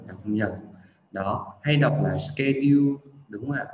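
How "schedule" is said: "schedule" as "ske-diu"; common mispronunciation. Shown as a demonstration. Teacher quoting learners' mistake, "ske-diu". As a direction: say "schedule" with a plain d and "iu". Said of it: "nhiều bạn nhầm".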